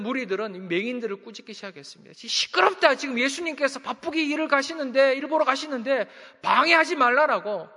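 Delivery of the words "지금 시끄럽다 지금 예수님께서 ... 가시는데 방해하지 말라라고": mock scolding. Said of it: "막 그들을 꾸짖었던 것입니다".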